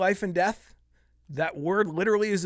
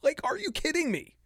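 higher, incredulous; real exasperation, pitched up; exasperated outburst; 8 semitones higher than usual. Real, not acted. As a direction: disbelief at the absurdity. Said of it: "Getting worked up".

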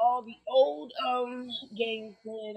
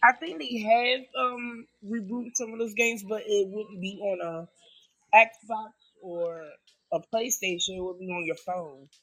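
echoing tunnel; 4 dB louder than usual. Real, not acted. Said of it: "You sound like you're in a tunnel".

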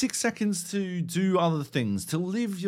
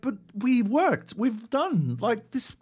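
hammed-up whiny plea, pitched higher; mock whining; 5 semitones higher than usual. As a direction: play the wounded kid begging to be heard. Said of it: "we're like".

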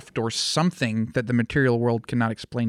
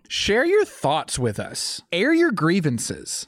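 mock-solemn invitation; 4 semitones higher, much slower than usual. Host mock-formally invites guest's complaint.

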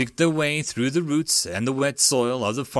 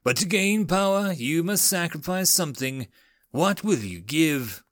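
rasping voice; 5 semitones higher than usual. Acted. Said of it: "A rasping voice came from the darkness".

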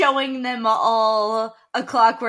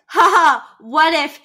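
mocking voice; 2 semitones higher than usual. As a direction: sneer it like a smug tempter. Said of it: "That's like being like".

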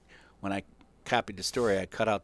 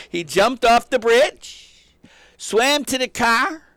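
much higher and louder, slow and drawn out; awed emphasis; 9 semitones higher, 7 dB louder, much slower than usual. Real, not acted. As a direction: marvel at the hero, stretching every word.

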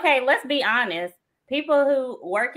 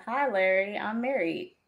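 role play reply; 3 semitones lower, 7 dB quieter than usual. Pretend. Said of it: "let's go with this".

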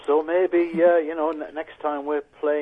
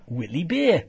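Geordie vowel, Bay as Beer; quick Geordie take on Whitley Bay; Geordie accent; 4 semitones higher, 3 dB louder, slower than usual. Shown as a demonstration. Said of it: "I'll just do a Geordie accent".

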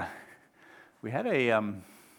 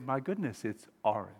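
soft, low wonder; hushed realisation; 4 semitones lower, 9 dB quieter than usual. Acted. Friend seeing the other's perspective, hushed realisation. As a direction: concede it quietly as it dawns.

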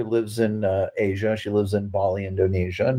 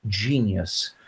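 proudly; much slower than usual. Retold or imitated. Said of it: "he very proudly said".

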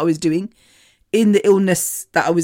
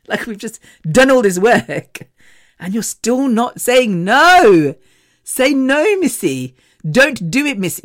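imitated exasperated scolding, rising on the refusals; up in arms; 4 semitones higher, 3 dB louder than usual. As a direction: act out a friend pleading in frustration. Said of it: "she's up in arms always".

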